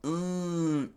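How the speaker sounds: high held groan of pain; strained high cry, mouth nearly closed; muffled pained cry. Acted. King slashed across the chest, high pained cry. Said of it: "the king screamed out".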